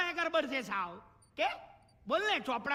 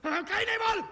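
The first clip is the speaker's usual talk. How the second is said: loud, higher sarcastic shout; angry shout; 8 semitones higher, 6 dB louder, faster than usual. Acted. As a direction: snap it out loud at the wife. Father yelling at wife. (પત્ની પર ગુસ્સાથી બૂમ)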